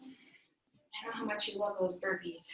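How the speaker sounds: softly sarcastic tease. Real, not acted. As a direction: tease them with understated sarcasm. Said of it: "I'm being sarcastic".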